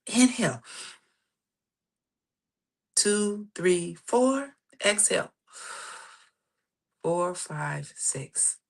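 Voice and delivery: measured count with long pauses for breath; guided breathing count. Acted. Coach leading listeners through breathing, guided breathing count. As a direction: pace the breath, letting each count settle.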